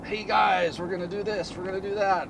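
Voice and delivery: pep it up like a cheery video host; upbeat host intro. Retold or imitated. Imitating Chris Fix's upbeat video intro, mock excited.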